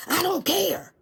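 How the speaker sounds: high, careless brush-off; president's voice. Acted. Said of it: "That's him, right?".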